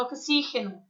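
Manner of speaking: "oxígeno" as in Spanish, stressed on "xí"; Spanish pronunciation. Shown as a demonstration. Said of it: "É assim que se fala em espanhol".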